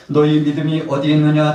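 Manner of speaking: high, loud acted challenge; loud rebuke. Jesus challenging his disciples' faith, loud rebuke. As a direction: call them to account forcefully. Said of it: "주님 책망하셨습니다".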